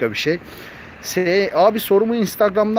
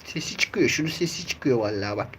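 much softer, lower hush beside sleeping kittens; 5 semitones lower, 9 dB quieter than usual. Real, not acted. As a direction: keep it down so the kittens stay asleep. Uyuyan yavruların yanında konuşuyor. (kısık, alçak sesle)

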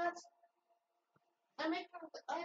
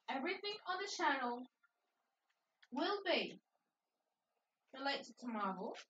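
deliberate repeat. Real, not acted. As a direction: spell it out phrase by phrase, pausing after each. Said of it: "Want me to repeat?".

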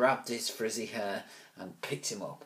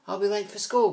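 much higher, louder whine; protesting boy; 11 semitones higher, 8 dB louder than usual. Acted. Ruskin protesting to his mother about school. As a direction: protest loudly.

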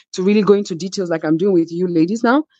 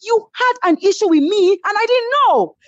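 much higher, defiant refusal; defiant angry shout; 14 semitones higher than usual. Retold or imitated. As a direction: screech back that you won't shut up. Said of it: "I said".

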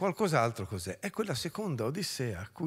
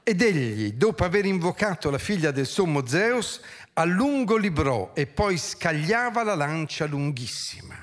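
dramatic verse recital, surging and settling; theatrical poetry reading with stretched phrase endings; declaimed epic narration. A narrator's reading. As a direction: declaim the battle as ancient epic. Reads epic battle finale aloud.

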